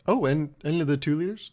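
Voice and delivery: mock-surprised question, rising at the end; acting surprised. Customer clarifying the soda deal, acting surprised. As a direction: feign mild surprise at the offer. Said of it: "act surprised".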